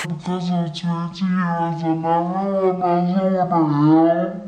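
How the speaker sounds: slow, words dissolving in real laughter; laughing through words. Real, not acted. Retelling the airport crying, laughing through it. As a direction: say it while you're cracking up.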